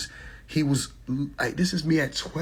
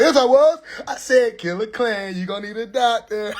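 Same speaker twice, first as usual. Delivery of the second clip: mock shouted retort; 5 semitones higher than usual.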